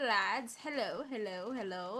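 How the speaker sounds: ordinary talk, nothing marked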